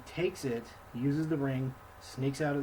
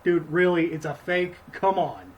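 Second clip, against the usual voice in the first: incredulous; 5 dB louder than usual. Retold or imitated. Incredulous retort to Thorin.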